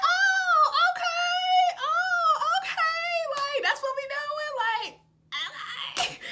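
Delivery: high, loud, laughing sarcastic okay; laughing mock reply. To her friend's bragging, a loud laughing okay. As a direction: cackle through a mocking okay.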